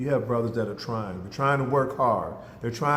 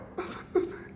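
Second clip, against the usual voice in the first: soft breathy sobs, imitated; mock crying; 9 dB quieter than usual. Girl opening her Christmas box, imitated soft crying. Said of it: "twelve-year-old girl starts crying".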